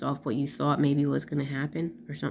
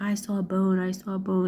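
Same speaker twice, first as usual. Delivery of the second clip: mock frightened kid, a bit higher; imitating crying son; 4 semitones higher than usual. Son seeing blood on his finger, mock panic. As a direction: echo the scared boy's cry. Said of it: "he's crying and crying".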